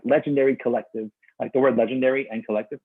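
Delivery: hoarse, strained host voice; losing voice. Real, not acted. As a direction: voice going raw from talking. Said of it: "Oh God, I'm losing my voice".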